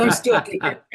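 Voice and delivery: amused slow repeat through laughter; laughing. Real, not acted. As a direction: laugh it out, stretching the words. Joking survival after flooded car.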